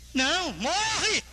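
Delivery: high, drawn-out mock death threat; acted threat. Preacher acting someone with a gun, drawn-out threatening cry. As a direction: act out an attacker's cry, stretching the last word.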